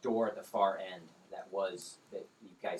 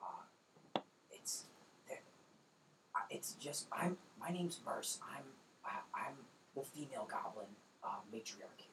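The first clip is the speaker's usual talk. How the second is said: hushed, half whispered goblin voice; hushed goblin matriarch bargaining through the door; 10 dB quieter than usual. Acted. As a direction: speak softly, wary and secretive.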